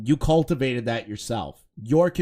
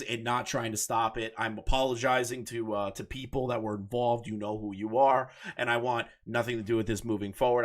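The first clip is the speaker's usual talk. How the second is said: mock public apology. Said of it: "You should have said".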